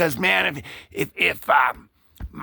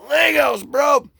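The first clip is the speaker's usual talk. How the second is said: high, loud mock outburst; emphatic exclaiming; 8 semitones higher, 6 dB louder, slower than usual. Guy revealing the exclusive he missed, emphatic exclaiming. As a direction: blurt it out like a hugely important reveal. Acted reveal in comic retelling.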